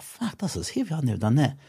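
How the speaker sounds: high, tight, soft strain; strained squeak. Retold or imitated. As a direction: squeeze it out under load. Retold strain on sandbag.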